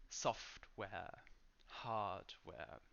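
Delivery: software and hardware, both parts equally strong; equal-weight compound. Shown as a demonstration. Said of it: "there isn't a syllable that's shorter".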